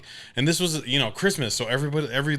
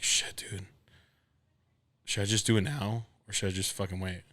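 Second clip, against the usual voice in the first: anxious inner voice; 6 dB quieter than usual. Retold or imitated. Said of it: "and I'm like".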